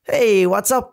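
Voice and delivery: slightly squeaky, uneasy greeting; nervous squeak. Acted. Adam nervously greeting his furious mum, mild nervous squeak. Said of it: "Adam squeaked as he nervously shuffled".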